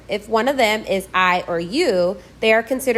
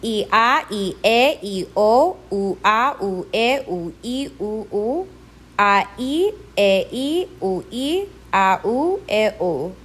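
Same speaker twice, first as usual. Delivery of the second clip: both vowels separate, the second emphasised, as in "I, a" and "e, u"; stressed accented vowel; slower than usual. Shown as a demonstration. Teacher drilling accented vowels, two syllables with the second stressed. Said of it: "with more emphasis".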